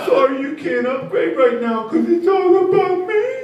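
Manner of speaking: put-on high, slow, cooing baby talk to a customer. Comedian mocks caller in baby talk. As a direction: coo at him like a toddler. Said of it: "I used baby talk".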